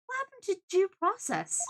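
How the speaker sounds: high-pitched, startled protest; indignant shock. Acted. Lawyer hearing of the death penalty, high shocked protest. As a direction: blurt it in acted disbelief.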